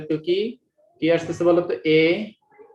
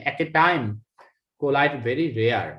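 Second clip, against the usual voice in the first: slow emphasis; 4 semitones lower, much slower than usual. Shown as a demonstration. Teacher stresses rarity of collisions.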